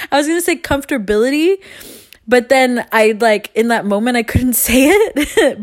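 high, giggling through the words; real giggles breaking into her words; laughing at herself. Real, not acted. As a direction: laugh it off, embarrassed at her wording. Laughing at her own wording.

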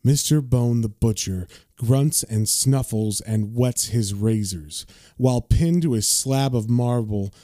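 slow, low storyteller voice reading the caption; dramatic caption reading. A narrator's reading. Reviewer reading the comic's caption aloud, in a slow, low narrator voice. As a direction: savor each grim phrase slowly.

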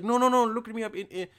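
quick, slightly put-on Indian accent. Customer insisting at the front desk, light Indian accent. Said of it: "I don't know why I just went to an Indian accent".

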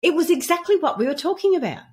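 high-pitched excited exclamation; retold eagerly, as if pointing out a discovery; high and animated; excited retelling. Excited retelling of spotting a sign.

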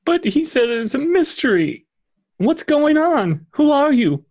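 put-on high, pleading child's voice; a girl close to tears, begging for news; tearful young girl. Marta questions the strangers.

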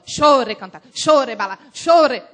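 imitated tongues in punched, repeated bursts; copycat disciples. Disciples all praying just like their pastor, mimicked punchy chant. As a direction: parrot the pastor's rhythmic prayer. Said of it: "As discípulas todas".

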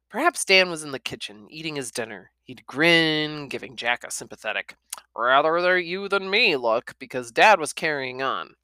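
steady storytelling read; narrating a children's novel aloud; story narration. A narrator's reading. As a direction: read it to the class.

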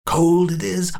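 high, unhinged glee; old man delighted to find his eye; confused old man. Acted. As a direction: cackle at the discovery. Old man finds eye, cackles.

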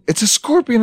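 high-pitched mock-scared cry; hammed-up squeal of alarm; imitated panic. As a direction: mimic a frightened recruit crying out. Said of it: "And they're like".

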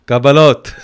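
loud call upstairs, breaking into a laugh; calling up to his brother for receipts, a laughing yell; laughing shout. Retold or imitated. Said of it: "הייתי צועק לו".

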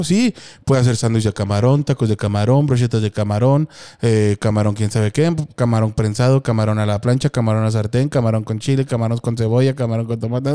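low, even recital of a long list; imitando a Buba. Retold or imitated. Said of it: "Y le decía". (imitando a Buba, lista recitada en tono más grave)

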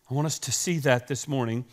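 ordinary talk

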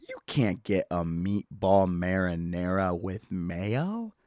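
slow disgusted whisper. Acted. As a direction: breathe it out in horror. Disgusted aside.

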